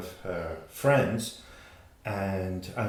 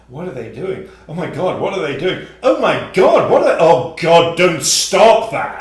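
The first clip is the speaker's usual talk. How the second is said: building from mildly to very loud, high excited gasps; mock excited peeping; 8 semitones higher, 14 dB louder than usual. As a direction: spiral up into shocked thrill. Mock voyeur escalating excitement.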